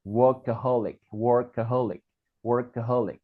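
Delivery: workaholic with a long "er" vowel; repeated teacher model of workaholic; model pronunciation. Shown as a demonstration. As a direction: drill workaholic slowly, WER-kaholic. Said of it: "âm ơ dài như là worries".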